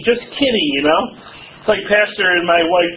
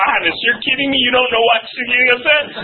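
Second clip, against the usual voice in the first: higher, incredulous questioning; mock disbelief; 5 semitones higher than usual. Counselor to clueless husband, mock incredulous. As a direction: act out not believing what he said.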